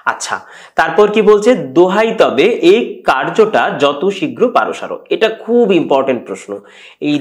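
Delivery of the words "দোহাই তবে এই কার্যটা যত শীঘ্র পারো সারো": slow, measured recital of the verse; poem recitation. Shown as a demonstration. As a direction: read the line like a poem, slowly. Teacher recites poem line slowly. (ধীরে কবিতা আবৃত্তি)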